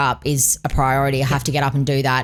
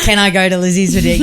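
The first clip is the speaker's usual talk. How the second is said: higher, louder, quicker playful plea; mock asking permission; 4 semitones higher, 5 dB louder, faster than usual. Wife jokingly asking husband's permission for dinner, playful plea. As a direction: pretend to sweetly ask permission.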